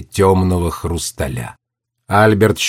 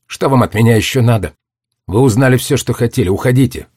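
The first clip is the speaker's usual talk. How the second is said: angry; 2 semitones higher, faster than usual. Acted. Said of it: "повернула злое, заплаканное лицо".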